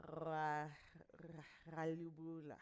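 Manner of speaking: "ra, ra, ralubula" as a slow tongue-tangle of R and L; tangled R and L. Shown as a demonstration. Coach showing how hard R and L are together, tongue-tangled. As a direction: stumble softly through "ra, ra, ralubula", rolling R into L. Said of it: "R and L sounds are the hardest sounds".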